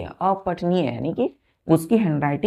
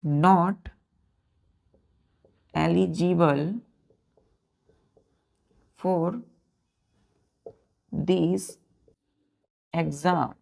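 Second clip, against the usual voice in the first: word by word dictation pace; teacher dictating a sentence to pupils; slow dictation; much slower than usual. Shown as a demonstration. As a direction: dictate each word with long pauses. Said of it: "जैसे हमने eligible में बोला".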